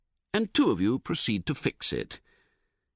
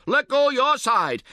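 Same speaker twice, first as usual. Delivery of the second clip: much higher, louder, slow; yelled demand; 13 semitones higher, 6 dB louder, slower than usual. A narrator's reading. Tentmate yelling at the camper, high, loud and slow. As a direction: hammer out the order. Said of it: "he yells back".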